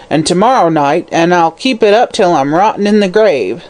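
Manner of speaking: a hag's suppressed malice; hateful crone. Acted. Hag defying the detective, full of malice. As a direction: spit it with hatred. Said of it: "hatred and suppressed malignity was her voice".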